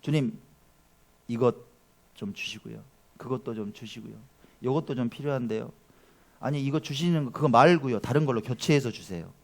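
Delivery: soft, low, casual request; understated, hushed asking; everyday prayer. Acted. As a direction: murmur a routine shopping-list prayer. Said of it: "평소에 기도할 때".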